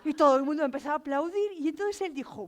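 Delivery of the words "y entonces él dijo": normal talking voice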